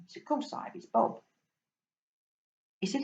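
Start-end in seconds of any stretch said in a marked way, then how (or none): 0.2-1.2 lightly voiced London accent, matter-of-fact; a London fish stating the obvious; a hint of a cockney London fish. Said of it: "You can tell I'm from London".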